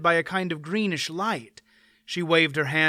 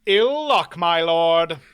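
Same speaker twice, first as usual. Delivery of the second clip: louder, courtly mock sympathy; dry observation; 2 semitones higher, 6 dB louder, slower than usual. A narrator's reading. Knight remarks on the baron's broken leg, dry. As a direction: remark on his bad luck lightly. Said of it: "Mander Allen observed".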